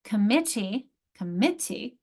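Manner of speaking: "Committee" with weight on MIT; "committee" as com-MIT-tee; second-syllable stress. Shown as a demonstration. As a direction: lean on MIT each time in "committee". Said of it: "my accent's here".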